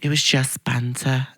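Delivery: slow, softened Mancunian attempt; slightly off Mancunian; Mancunian accent. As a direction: redo it in a Manchester accent. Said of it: "my accent was a little bit off".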